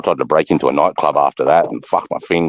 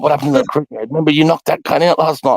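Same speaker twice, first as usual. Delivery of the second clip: retold questioning; 9 semitones higher than usual. Retold questioning about the night before.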